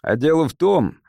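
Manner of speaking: "А дело в том" pressed firmly; "А дело в том" with measured, insistent weight; emphatic insistence. A narrator's reading. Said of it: "произнёс это с нажимом".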